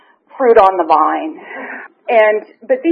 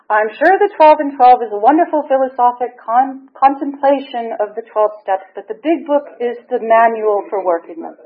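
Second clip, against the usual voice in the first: lightly voiced prim, proper English lady; a hint of a crisp Julie Andrews primness; 3 semitones higher than usual. Sponsor quoting the rules of the program, in a light Julie Andrews voice. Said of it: "in this wonderful Julie Andrews voice".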